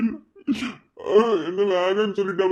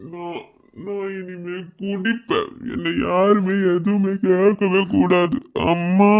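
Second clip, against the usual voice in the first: put-on drunken sobbing. Heartbroken drunk man sobbing.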